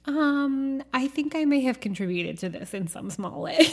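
laughing guilty understatement; mock sheepish confession. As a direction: admit it through a giggle. Sheepish admission amid hurricane.

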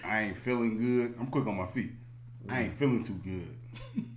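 mock sick kid. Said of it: "I got caught one time".

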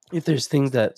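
hoarse, cracking voice; voice giving out. Real, not acted. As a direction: voice failing mid-sentence. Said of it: "sorry, I'm losing my voice".

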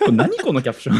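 after laughing hard. Real, not acted. Right after laughing at the caption.

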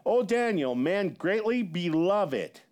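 solemn scripture reading, slowing down at the end; personal angelic address. Retold or imitated. Angel greeting Daniel in a visitation, solemnly drawn out. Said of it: "listen to how personal this".

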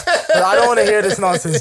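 laughing through a mock telling-off. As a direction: raise your voice without fully shouting. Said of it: "raising my voice".

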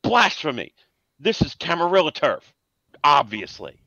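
high, scandalised toff cry; posh indignant gent. Acted. The gentleman protests to the players, high and scandalised. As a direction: gasp at the heresy like a stuffy lord. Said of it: "the other guy goes".

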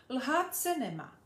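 put-on the girl echoing the rule back; Pipi agreeing. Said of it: "řekla Pipi ještě smutněji".

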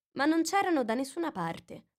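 ordinary delivery

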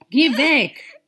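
crying shout, loud and high; sobbing yell to be left alone; tearful outcry. Acted. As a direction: cry out at him through tears. Distraught woman at bridge railing.

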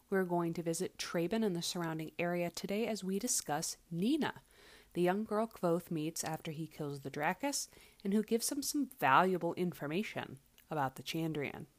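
echoey room sound; big hall echo. Real, not acted. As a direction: voice bouncing off bare walls. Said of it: "I apologize for any echoing you might hear".

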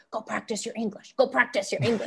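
lightly voiced urging parent; a hint of a parent nudging a child along; pushy parent. Parent pushing child toward a foreigner, lightly voiced urging. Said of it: "pushing their child".

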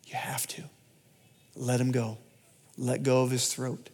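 hushed, near-whispered command; quiet, gentle but firm insistence; a hint of a whispered divine voice; soft inner voice. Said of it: "Holy Spirit saying".

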